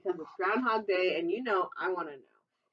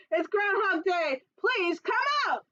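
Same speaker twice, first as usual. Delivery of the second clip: raised, higher calling out to the groundhog; mock shout; 10 semitones higher than usual. Townspeople calling out to the groundhog with a shout. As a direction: call him out of his burrow. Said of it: "added with a shout".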